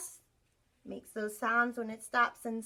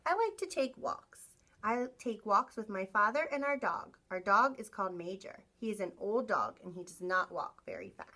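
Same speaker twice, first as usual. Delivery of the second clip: storybook voice for the class; reading to children; 2 semitones lower than usual. Acted. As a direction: read it like a picture book to kids. Reads picture book to class.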